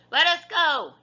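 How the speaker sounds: high, loud shout in his face. A narrator's reading. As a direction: yell it up high. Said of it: "Annie shouted in his face".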